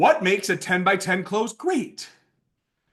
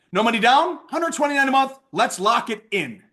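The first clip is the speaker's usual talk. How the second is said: sales close; 4 semitones higher than usual. Shown as a demonstration. Example close pitched to a customer.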